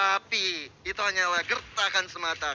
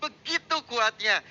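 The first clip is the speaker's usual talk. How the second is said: excited caster; 4 semitones higher than usual. Real, not acted. Cheering a big teamfight turn.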